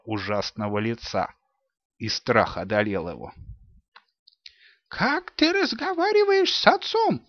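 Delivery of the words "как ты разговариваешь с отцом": high scolding exclamation; frightened robber rebuking the girl; испуганный высокий упрёк; alarmed exclamation. A narrator's reading. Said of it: "воскликнул он".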